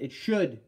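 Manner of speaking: "should" weighted and firm; stress on should. Shown as a demonstration. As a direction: lean into "should". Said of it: "Emphasis on should fit".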